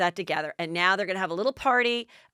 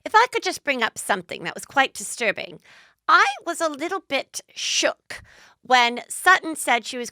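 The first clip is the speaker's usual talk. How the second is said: Dorit; 5 semitones higher, 4 dB louder than usual. Retold or imitated. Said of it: "and Dorit goes".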